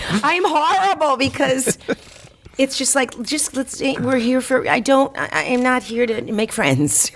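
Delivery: high, laughing confession; high, amused admission; laughing self-mockery. Real, not acted. Laughing self-critique, high pitched.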